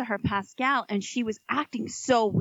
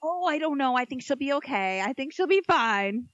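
feigned innocence; 3 semitones higher than usual. Retold or imitated. Mother-in-law playing innocent, secretly knowing.

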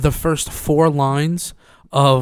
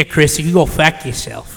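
imitating a Boston accent, not quite right; botched Boston accent. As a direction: attempt a Boston "fuck" with a fronted vowel. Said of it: "you didn't do it right".

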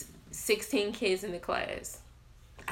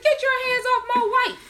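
put-on very high, loud child's warning; possessive little daughter; 7 dB louder than usual. Daughter warning off the man hugging mom, high loud imitated child voice. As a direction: imitate an indignant kid, shrieky high. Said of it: "she was like".

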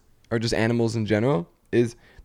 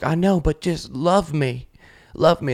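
pleading; 6 semitones higher, slower than usual. Acted. Owner pleading with teenage cats.

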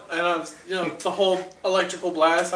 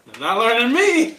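ME pushed up at the end and louder; stress on ME; 3 semitones higher, 5 dB louder than usual. Acted. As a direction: land hard and high on "me". Contrasts me with you.

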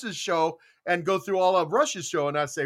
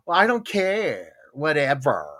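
put-on Valley Girl voice; 3 semitones lower, slower than usual. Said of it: "talking to us like that".

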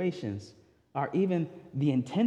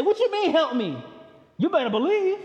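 mock harsh rebuke; 10 semitones higher, 5 dB louder than usual. Imagined stern Jesus rebuking.

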